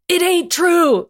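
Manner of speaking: slow, high, loud yell of denial. Acted. Logan yells to deny Mystique's story, slow and loud. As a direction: drag the denial out, yelling. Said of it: "Logan yelled".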